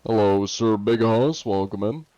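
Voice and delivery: put-on light, luscious Russian accent. Streamer welcoming Sir Big Hoss, in a put-on Russian accent. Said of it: "use my luscious Russian accent".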